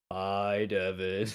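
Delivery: imitating a support-group chorus hello; AA group greeting. Host teasing co-host's greeting, mock AA meeting hello. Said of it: "like, an Alcohol Anonymous person when you said that".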